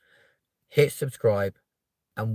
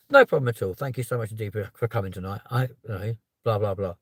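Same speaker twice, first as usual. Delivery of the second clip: mock overly formal politeness; 3 semitones lower, faster than usual. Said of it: "and be like".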